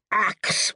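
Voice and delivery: "axe" said for ask, with a clear ks at the end; mispronounced ask. Shown as a demonstration. Mocking people who say "axe". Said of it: "People who mispronounce the word ask".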